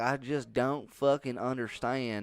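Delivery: drawled vowels, slow delivery; put-on drawl. Puzzled by his childhood friend's accent, mimicked drawl. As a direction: stretch "understand" into a slow drawl. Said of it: "because you talk like that".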